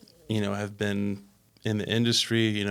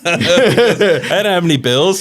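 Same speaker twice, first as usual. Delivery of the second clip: laughing through the words, pitched up; 8 semitones higher, 11 dB louder, much slower than usual. Real, not acted. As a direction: giggle it out, amused. Laughing recalling kid paychecks.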